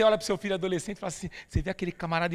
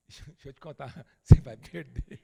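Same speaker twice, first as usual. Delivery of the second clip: falando entre risadas; rindo; 4 semitones lower, 5 dB louder than usual. Real, not acted. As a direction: segura o riso enquanto fala. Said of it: "agora eu tô rindo". (falando rindo)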